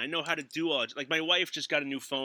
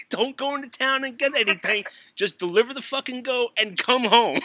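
mock scolding mother; 7 semitones higher, 6 dB louder than usual. Mock mother from Jack and the Beanstalk.

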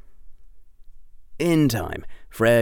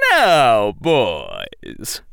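put-on louder, stern old man warning; severe; 5 dB louder than usual. A narrator's reading. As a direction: scold the boys like a strict grandfather. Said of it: "sounding severe".

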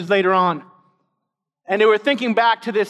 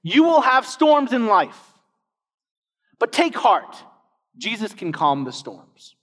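quoting a cliché; 3 semitones higher, slower than usual. Retold or imitated. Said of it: "something like this".

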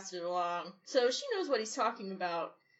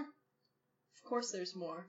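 slow, flat, lower deadpan; 4 semitones lower, 4 dB quieter, much slower than usual. Acted. Sonny tells the leering NPC there are more, deadpan and slow. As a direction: drag it out like it's obvious.

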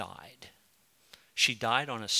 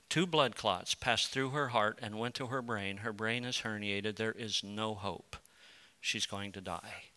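grave bad news; 2 semitones lower, 6 dB quieter than usual. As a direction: break fatal news quietly, voice dropping away. Retelling doctors' hopeless verdict.

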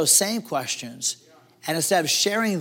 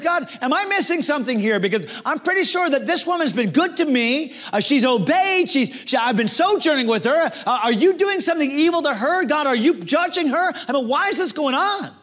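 sincere plea; 8 semitones higher than usual. Retold or imitated. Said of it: "sincerely goes to God and says".

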